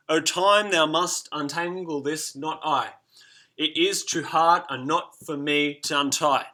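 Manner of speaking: measured verse reading; recited verse. Shown as a demonstration. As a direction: read the line aloud as verse, slow at thou must untangle this. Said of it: "look at the T here".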